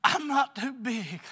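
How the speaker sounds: loud, slow, proud confession; loud slow cry of humility; loud declaration. Real, not acted. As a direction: belt it out to the pews. Confession to the church.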